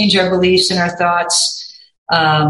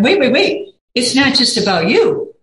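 self-reminder; 4 semitones higher than usual. Retold or imitated.

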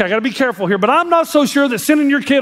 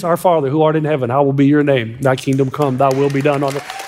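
whispered prayer; 7 semitones lower than usual. Retold or imitated. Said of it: "started doing this".

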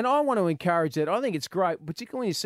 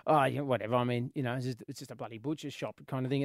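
dismissive shrug; 5 semitones lower, 7 dB quieter than usual. Retold or imitated. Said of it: "we're like".

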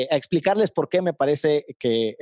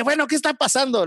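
a light, higher mock of the bewildered family; puzzled dad; 9 semitones higher than usual. Father asking what is going on, higher mock voice. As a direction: voice the chaos, pitched up and lively.

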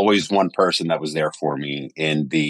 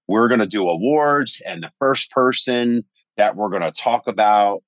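lightly voiced emcee announcing the awards; a hint of a stage host reading out the award; imitating the award presenter; 4 semitones higher than usual. Narrator mimicking the award presenter on stage, a light emcee voice. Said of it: "and they were like".

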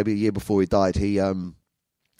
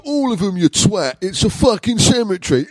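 higher, louder mock shout with laughter; laughing mock rebuke from the old man; dad's punchline; 12 semitones higher, 8 dB louder than usual. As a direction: yell the punchline at your son, laughing. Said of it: "And he go".

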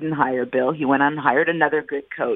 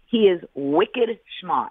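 attempted New England accent on "wicked smart"; 3 semitones higher, slower than usual. Shown as a demonstration. Radio analyst trying out a local expression, attempted New England accent. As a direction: say "smart" as "smaht", slow, New England style. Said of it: "try to pronounce it correctly, New England style".

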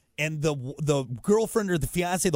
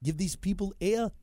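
Arnold; 4 semitones higher, 5 dB quieter than usual. Acted. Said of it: "you haven't done Arnold in a while".

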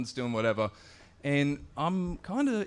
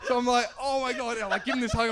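emotional oh my God; 9 semitones higher than usual. Retold or imitated. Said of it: "I'm starting to tear up".

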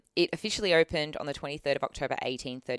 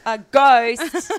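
spooky ghost reveal; 9 semitones higher, 15 dB louder than usual. Acted.

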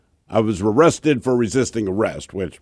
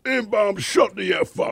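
retold shout from next cell; 9 semitones higher, 4 dB quieter, slower than usual. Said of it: "you just hear this guy like".

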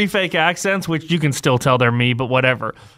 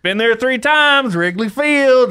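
slow, higher caller voice; 7 semitones higher, slower than usual. Retold or imitated. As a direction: drawl it like a dumb caller. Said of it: "the caller in between you and I goes".

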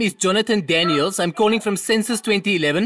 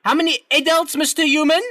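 to someone hard of hearing; 4 semitones higher than usual. Acted. Raised voice for deaf man.

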